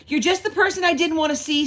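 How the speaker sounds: put-on high, fast, loud girl's voice, fed up; annoyed girl. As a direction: spit it out like a cross little girl. Lulu annoyed at Fleischman.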